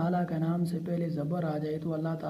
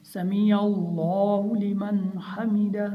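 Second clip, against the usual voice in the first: measured recitation with distinct words; each word separate; 3 semitones higher, 5 dB louder, much slower than usual. Shown as a demonstration. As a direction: recite word by word, giving each its full length. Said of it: "इलादा इलादा करके पढ़ना है". (अलग-अलग करके पढ़ना)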